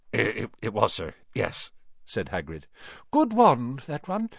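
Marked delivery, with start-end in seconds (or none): 0.1-1.7 stammering, deferential giant; Hagrid, nervous. A narrator's reading. 3.1-4.3 put-on old wandmaker. A narrator's reading.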